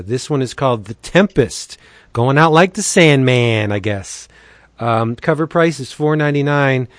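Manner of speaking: upbeat pitchman read, leaning on the deals; breezy promo voice with punchy price reveals. Acted. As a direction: sell the comics like a radio spot host. Monthly DCB sponsor spot.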